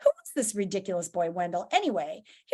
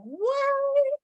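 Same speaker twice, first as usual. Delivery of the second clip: baffled, starting very high then settling; incredulous reaction; 13 semitones higher than usual. Acted. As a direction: react in comic disbelief. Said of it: "he's like".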